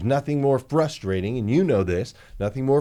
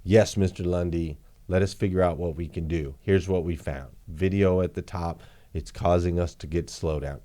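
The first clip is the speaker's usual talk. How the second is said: lower, polite developer reporting findings; 7 semitones lower, 4 dB quieter than usual. Acted. Developer answering the dealer, lower and polite. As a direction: play the developer, a step lower and deferential.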